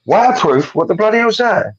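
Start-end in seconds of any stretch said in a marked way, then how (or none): 0.1-0.7 "Waterproof?" with a rising, puzzled tone; "Waterproof?" echoed back as a confused question; questioning the word. Retold or imitated. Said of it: "it's a proper English way of speaking".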